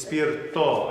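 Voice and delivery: "spirito" slowed, ending on a clear O; final O vowel. Shown as a demonstration. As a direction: land "spirito" on O instead of U. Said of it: "It's an O vowel".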